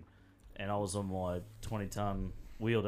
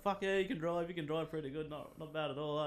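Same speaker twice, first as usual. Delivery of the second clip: impressed mate; 6 semitones higher than usual. Retold or imitated. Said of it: "he's like".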